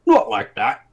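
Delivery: high, loud scolding; correcting brute. Acted. Taller man correcting his partner, high and loud. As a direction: cut him off to correct him. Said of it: "the taller one said".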